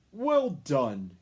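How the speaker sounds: loud hearty Santa; hearty praise. A narrator's reading. Santa praising the youngest reindeer, loud. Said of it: "he said, patting".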